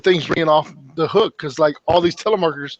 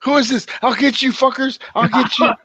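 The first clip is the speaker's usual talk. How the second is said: mock threat; 8 semitones higher than usual. Threatening victim imitated.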